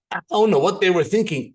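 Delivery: incredulous, lightly acted; baffled. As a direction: shrug off their refusal in disbelief. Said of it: "You would go home baffled".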